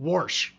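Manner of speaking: "Warsh" said with an r sneaking in, wawrsh; Midwest warsh. Shown as a demonstration. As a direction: say "Warsh" like a Chicago local. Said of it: "Warsh, exactly".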